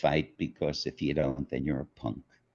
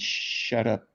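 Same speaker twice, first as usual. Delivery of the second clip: laughing translation; 5 semitones higher than usual. Real, not acted.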